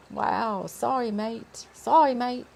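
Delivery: slow, unsure stab at European accent; European accent attempt. Shown as a demonstration. Narrator practises Dakar's apology, tentative European accent. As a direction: feel out a European accent slowly. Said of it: "Knowing his European accent".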